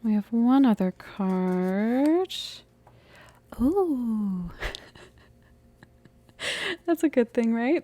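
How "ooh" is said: long falling "ooh" of surprise; surprised ooh. Real, not acted. Reader reacts to a new card, surprised ooh. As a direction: let out an involuntary drawn-out ooh. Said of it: "That I made that sound".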